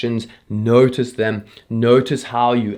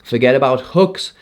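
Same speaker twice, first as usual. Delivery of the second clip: reciting a mantra. Shown as a demonstration. Creator reading her pre-shoot mantra, earnest. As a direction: read it like a personal pledge. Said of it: "it goes a little something like this".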